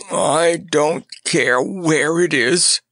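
exhausted lion groaning after the crash. Acted. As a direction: groan it out, worn through. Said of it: "groaned the lion".

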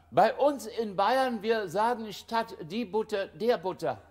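a hint of a prim schoolboy reciting; mimicking the boy. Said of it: "wie sagt er". (Bub sagt brav seinen Satz auf, leicht nachgeahmt, langsam)

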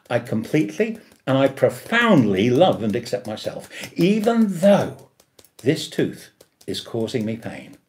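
emphatic, earnest affirmation; setup phrase demo. Shown as a demonstration. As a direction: say it with conviction, stressing "even though". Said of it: "show you how I do it right the way through".

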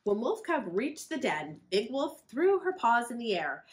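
ordinary delivery

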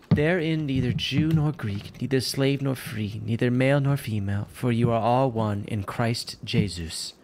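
lightly voiced woman reciting scripture; slow, measured scripture recital; scripture-quoting character. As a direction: recite it deliberately, stretching the final words. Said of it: "She says it like that".

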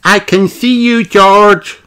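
put-on high, gleeful little girl voice; Peppa's voice. A narrator's reading. Peppa spotting George in his hiding gap, high and gleeful. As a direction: catch him out, delighted. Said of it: "said Peppa".

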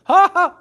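loud high burst of demo laughter; hearty laugh demo. Shown as a demonstration. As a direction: show them a big free laugh. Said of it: "하하하하 막 웃으면 되는데". (크고 높게 터뜨리는 시범 웃음)

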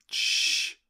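sharp, unvoiced hissing shush; hissed hush. A narrator's reading. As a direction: hiss for silence. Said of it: "syknął pies".

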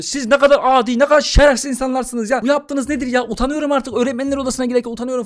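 high-pitched imitated scolding; mock teacher's indignant rant; angry teacher. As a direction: tell off a class in outrage. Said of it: "O da bize kızıyor işte".

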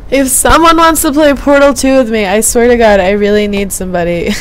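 loud, pleading plea for a partner. Real, not acted. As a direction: call out, begging for someone to play.

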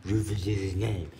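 talking to the puppy; sing-song pet voice for the dog. Real, not acted. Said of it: "it's just my dog voice".

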